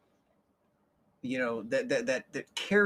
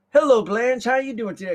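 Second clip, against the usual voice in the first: coworkers greeting; 8 semitones higher, 8 dB louder than usual. Retold or imitated. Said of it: "they're like".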